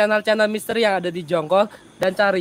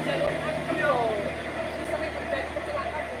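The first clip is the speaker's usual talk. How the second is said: whispering; 3 semitones higher, 8 dB quieter than usual. Real, not acted. Whispered warning aside.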